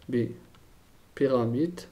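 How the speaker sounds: "Bipyramide" drawn out syllable by syllable; slow, spelled-out repeat. Shown as a demonstration. Teacher repeating the term for the class, slowly. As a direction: say "Bipyramide" very slowly so students can write it.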